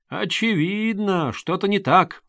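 очевидно stretched slow and insistent; heated, drawn out. A narrator's reading. Young man urges Koch before running downstairs, heated and drawn out. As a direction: lean hard on очевидно, slowly. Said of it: "горячо вскричал".

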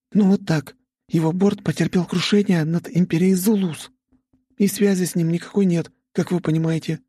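the heiress breaks news of the crash; Vika delivering bad news. Vika voiced by narrator.

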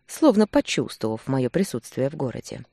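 normal talking voice

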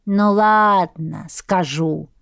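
put-on a slow old crone backing down; old woman giving in. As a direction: reluctantly concede like an old granny. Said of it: "пошла на попятный старушка".

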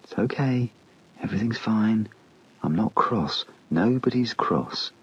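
put-on calm yourself like a frightened child; hugging himself, soothing his own fear softly; gentle, reassuring. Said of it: "said in a gentle, reassuring voice".

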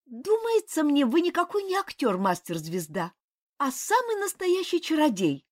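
высокий голос княгини, запальчиво; воскликни, обвиняя. A narrator's reading. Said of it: "запальчиво воскликнула Касима". (княгиня запальчиво обвиняет мастера)

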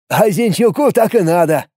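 put-on cocky young recruit; young man voice. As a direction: declare it with a smug edge. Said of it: "заявил Виктор".

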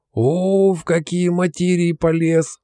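put-on teasing drawl at a boy getting philosophical; drawn out mock surprise. A narrator's reading. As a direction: stretch the words out, teasing. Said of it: "протянул дядя Петя".

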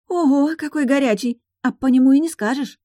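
drawing out respect for the duke; awed drawl. Acted. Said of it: "с уважением протянула Сузи". (с уважением, протяжно, выше)

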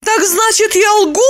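high, indignant; indignant Lipochka. A narrator's reading. Lipochka outraged at Roman's doubt. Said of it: "возмутилась Липочка".

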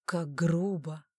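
a slow, lightly voiced mentalist tut; mock offended. A narrator's reading. Mentalist tutting at the rude girl, slow mock offence. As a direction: drawl out mild disapproval. Mentalist mocks her rudeness.

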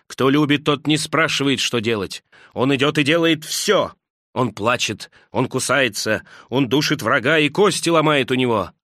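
angry outburst. Acted. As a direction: lash out at them with bitter passion. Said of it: "гневно обрушился".

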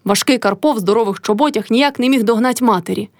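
plain reading voice

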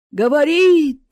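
loud, slow eerie howl; howling into speaker. A narrator's reading. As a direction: wail it like a ghost on the speaker. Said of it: "завыла в динамик Марина".

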